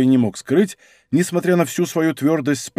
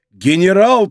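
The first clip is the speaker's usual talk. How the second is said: louder startled cry; repeated cry; 4 semitones higher, 6 dB louder, slower than usual. Acted. Soldiers echoing Digby, startled cry. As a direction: echo the shout of surprise. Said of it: "повторили солдаты".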